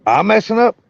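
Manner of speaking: cutting in and out; choppy broken connection; radio breaking up. Real, not acted. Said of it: "Your voice, your".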